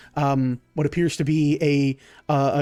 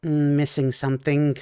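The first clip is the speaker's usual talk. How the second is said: puzzled kobold musing; much slower than usual. Acted. Wizzo inspecting the drink, musing with rising pitch. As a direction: search your memory, rising until it clicks. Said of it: "looks at it and goes".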